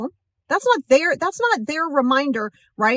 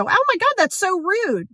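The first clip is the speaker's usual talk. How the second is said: hammed-up offended shriek; mock outrage; 8 semitones higher than usual. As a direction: play a scandalised gasp of offence. Acted offended reaction.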